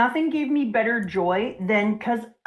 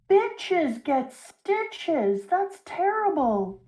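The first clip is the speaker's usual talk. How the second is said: slow mock shock; 8 semitones higher, much slower than usual. Real, not acted. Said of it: "mock shock".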